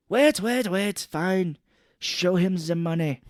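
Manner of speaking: hammed-up nervous boss; mock panic. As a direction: stop the deal in a fluster. Robot guy panicking, giving in.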